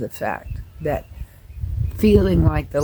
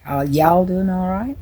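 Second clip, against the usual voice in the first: Southern accent. Shown as a demonstration. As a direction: greet them with a mild Southern accent. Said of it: "my old Southern accent comes right out".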